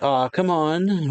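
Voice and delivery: mock protest. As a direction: whine it lightly as a retold protest. Acted complaint to a stronger opponent.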